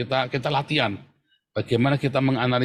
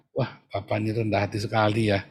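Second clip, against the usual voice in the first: gentle praise demo; 3 semitones lower than usual. Shown as a demonstration. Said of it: "Anda caranya gimana?".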